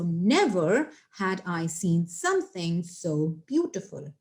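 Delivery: NEVER stretched out at the front, slow deliberate sentence; emphatic inversion. Shown as a demonstration. Teacher showing students an inverted sentence, slow stress on NEVER. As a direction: lean on NEVER, then deliver it slowly. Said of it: "you start your sentence with never".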